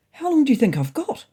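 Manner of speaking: mournful sniffle. Acted. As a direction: ask it like a scared patient on the verge of tears. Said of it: "I sniffed mournfully".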